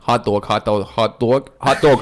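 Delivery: repeating "hot dog" to find a Boston accent; Boston accent warm-up. Shown as a demonstration. Calibrating his Boston accent for the podcast crew with "hot dog". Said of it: "hot dog is my calibration word".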